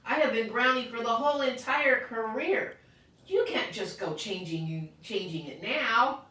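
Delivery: put-on high, loud kid insisting; whiny schoolyard protest. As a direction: protest like a stubborn child. Child protesting loudly to friends.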